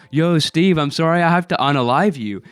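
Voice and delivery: hint of a goofy big-guy voice; silly voice. Big guy goes up to Steve, lightly silly voice. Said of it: "doing this really silly voice".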